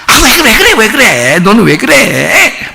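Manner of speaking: chuckling, wheedling his daughter; lightly voiced playful father; laughing coaxing dad. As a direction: coax with a laugh, slowing at the end.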